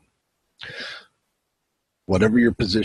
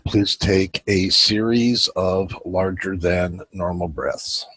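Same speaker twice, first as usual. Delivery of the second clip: unhurried meditation guide with long pauses; calm guiding voice, leaving room to breathe; guided meditation. Acted. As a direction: lead them gently through a breathing visualization.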